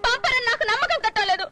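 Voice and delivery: laughing through tears; a hurt laugh that turns to crying; bitter tearful laugh. Acted. Wife mocking her husband's betrayal, laughing through tears.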